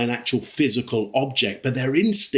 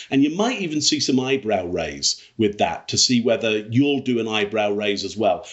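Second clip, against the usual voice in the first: ordinary delivery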